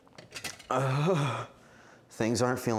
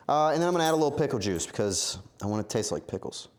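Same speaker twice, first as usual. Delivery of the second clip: ordinary delivery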